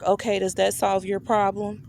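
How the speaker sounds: retold question with a touch of attitude; a little attitude. Daycare administrator asking the mother on the phone, slight attitude. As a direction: lightly imitate someone a bit put out. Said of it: "like, a little attitude".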